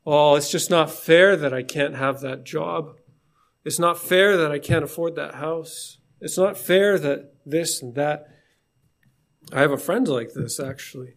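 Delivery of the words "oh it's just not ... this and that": whiny complaint. Retold or imitated. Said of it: "you complain about it".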